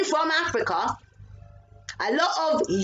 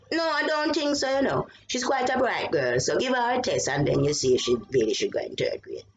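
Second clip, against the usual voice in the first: mother's polite, proper English version; lightly voiced mother, correct and calm; proper English mom. Mother asks the school politely in proper English. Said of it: "it was more like".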